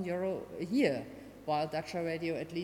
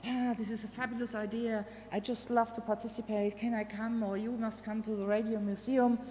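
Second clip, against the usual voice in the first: put-on much higher, gushing voice of a keen elderly man; enthusiastic old man; 7 semitones higher than usual. Museum man thrilled by the caller's idea, high and gushing. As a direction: gush with delight like a thrilled old fan. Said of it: "and he was like".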